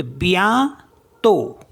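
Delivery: slow, careful बियांतो with a nasal ending; teacher modelling बियांतो in French; French bientôt. Shown as a demonstration. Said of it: "next word है बी आई ई एन टी ओ टी".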